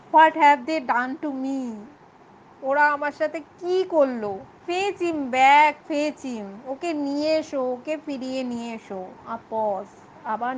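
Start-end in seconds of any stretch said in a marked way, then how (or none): 0.1-9.1 wailing.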